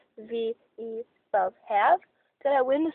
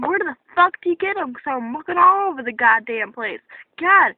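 exasperated, louder outburst; mad; 4 dB louder than usual. Real, not acted. Shopper unable to find wanted sandals, mad. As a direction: vent real frustration. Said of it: "really makes me mad".

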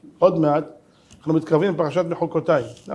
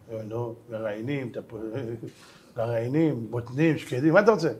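offhand mockery; 7 semitones lower, 7 dB quieter than usual. Rabbi mocks, pun on seeds.

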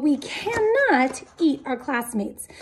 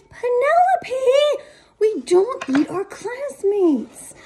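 teacher scolding; 8 semitones higher, slower than usual. Acted.

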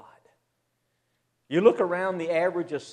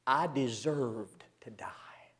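hushed confession; 4 dB quieter, slower than usual. Real, not acted. Confessing his own sin.

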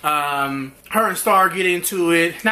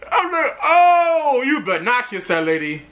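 real laugh breaking through; real laughing cry; 4 semitones higher than usual. Real, not acted. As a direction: crack up in horror. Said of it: "laugh cry".

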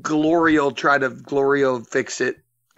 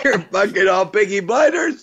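teasing shout; 5 semitones higher than usual. Real, not acted. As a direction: yell the jab at the guys for a laugh.

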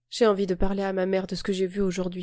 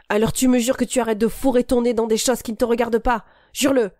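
threatening; 3 semitones higher, 5 dB louder than usual. Acted. Boy threatening, gripping wrist.

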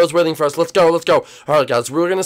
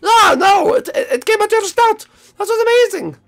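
high, loud astonishment; hammed-up wonder, squealing higher; play-acted amazement; 11 semitones higher, 4 dB louder than usual. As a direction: gush in mock disbelief.

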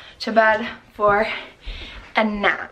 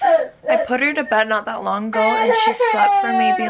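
laughing; 7 semitones higher, 3 dB louder, faster than usual. Real, not acted. Exasperated laugh at crying baby.

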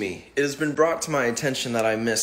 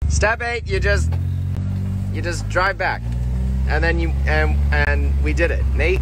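hyped up; 6 semitones higher, 7 dB louder than usual. Acted. Host hypes the tutorial.

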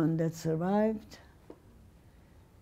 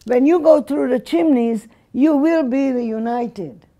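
louder, mocking shout; retold yell; 4 semitones higher, 6 dB louder than usual. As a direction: throw it at her with contempt. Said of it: "she yells at me again".

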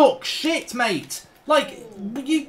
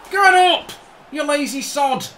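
angry yell; 4 semitones higher than usual. Real, not acted. Gamer yelling at his goalkeeper lying down, angry. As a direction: bark at the keeper on the floor.

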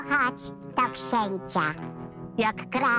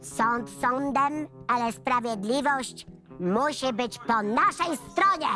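helium voice. Pretend. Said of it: "powiedzieć ładnie na tym helu".

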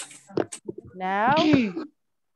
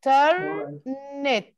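Internet stretched out syllable by syllable; slowly split word; much slower than usual. Shown as a demonstration. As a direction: pull Internet apart slowly.

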